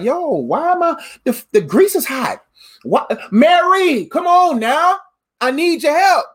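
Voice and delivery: fed up, hollering for Mary to help; frustrated Martha. Acted. Martha in the kitchen calling Mary, mildly exasperated.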